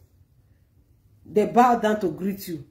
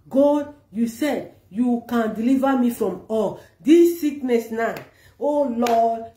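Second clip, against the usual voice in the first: model prayer. Shown as a demonstration. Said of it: "Use this word every blessed day".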